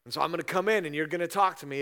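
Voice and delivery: brash mock swagger before God; smug entitlement. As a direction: play the arrogant one who thinks God owes him. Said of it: "this smugness that says".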